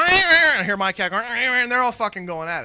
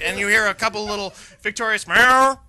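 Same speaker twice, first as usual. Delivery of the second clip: words spilling out through real laughter, louder; laughing while telling; 2 semitones higher, 6 dB louder than usual. Real, not acted. Storyteller cracking up over the winning cat, laughing. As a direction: laugh your way through the line.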